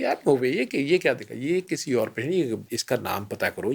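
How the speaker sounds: replaying an irritated senior doctor's snap of disbelief; retold angry outburst. Doctor retelling his professor's angry disbelief at the CT scan, a mock angry outburst. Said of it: "بڑے غصے سے کہتے ہیں".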